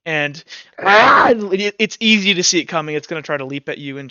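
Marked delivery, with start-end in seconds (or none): 0.8-1.3 creature lunge cry. Acted. Acting out the creature lunging.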